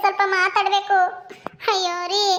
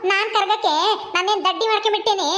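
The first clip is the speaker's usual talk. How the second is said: taunting words with a scornful laugh through them; mocking laugh. Mother-in-law mocks the crying bride, laughing scornfully. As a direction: laugh her tears off, jeering.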